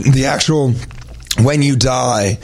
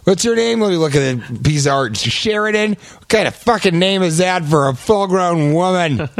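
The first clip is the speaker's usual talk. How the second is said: mock outrage, voice jumping high; high-pitched comic indignation; lightly hammed-up angry artist; angry caricature artist; 5 semitones higher than usual. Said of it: "Here's the angry caricature artist".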